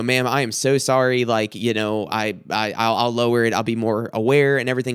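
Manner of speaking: retold humble, conciliatory apology; humbled apology. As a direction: apologise meekly, as if retelling it. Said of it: "I just humbled myself".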